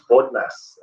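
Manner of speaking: lightly imitated Cockney accent on one word. Teacher recalling the tutor's funny word, mock Cockney accent. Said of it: "it's called the Cockney accent or something".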